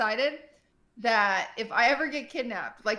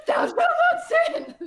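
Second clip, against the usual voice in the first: high and slow, shouting the verse louder; louder mock preaching; 4 dB louder, slower than usual. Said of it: "saying it to them louder and louder".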